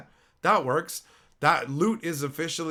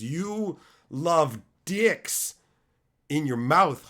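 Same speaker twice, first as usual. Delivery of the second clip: slow teasing drawl; much slower than usual. Real, not acted. Slow drawn-out mockery.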